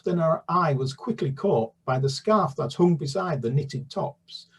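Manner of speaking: bouncy rhythmic verse reading; rhyming read-aloud. A narrator's reading. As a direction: roll the rhythm along for children.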